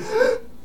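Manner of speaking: sharp theatrical gasp of dismay; high, distraught mock gasp. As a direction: gasp as if heartbroken, hammed up. Paladin distraught over torn decree.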